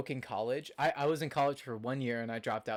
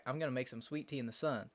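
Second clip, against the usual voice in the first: southern accent; 4 dB quieter than usual. Shown as a demonstration. Showing how Tennessee family talk, southern accent. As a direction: slip into a Southern US twang. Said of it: "That's, like, how they talk".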